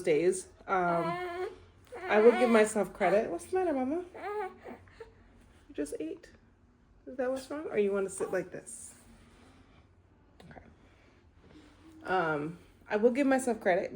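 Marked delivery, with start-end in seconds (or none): 3.3-10.6 soothing a fussy infant, sing-song. Real, not acted. Mother soothing her fussing baby.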